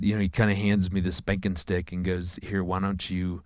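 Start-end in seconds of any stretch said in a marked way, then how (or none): 2.4-3.4 laughing offer. Retold or imitated. Dad offers son the spanking stick.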